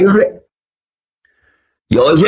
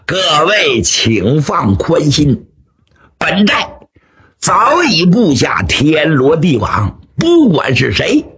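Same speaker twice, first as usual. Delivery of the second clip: lightly voiced boastful bandit chief; 2 semitones higher than usual. Bandit chief reassures his men about intruders, lightly acted boast. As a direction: reassure grandly, spacing out the final threat.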